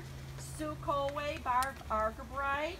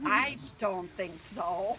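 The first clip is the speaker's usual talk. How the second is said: doubtful inner thought; 4 semitones lower, 3 dB louder, much slower than usual. Retold or imitated. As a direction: let the thought hang, doubting it. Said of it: "and I thought".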